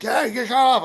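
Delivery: high-pitched imitation of an irritated manager; annoyed mock yell. Manager telling a noisy guitarist to stop, mock-annoyed. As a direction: act out someone fed up with the noise.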